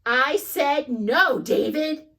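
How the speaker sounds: slow, deliberate I-told-you; fed-up mom. Acted. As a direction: lean on every word. Mom repeating warning.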